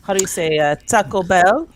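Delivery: halting mock Spanish accent. Co-host pretending to forget Taco Bell, mock Spanish accent. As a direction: grope for English in a put-on Spanish accent. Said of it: "start speaking with a Spanish accent".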